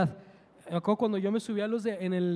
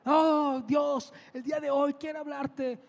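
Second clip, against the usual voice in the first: prédica actuada en tono alto; clamor de predicador callejero, sin gritar; imitando a un predicador; 4 semitones higher than usual. Retold or imitated. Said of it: "empieza a hablar de Dios". (predicación imitada, voz elevada)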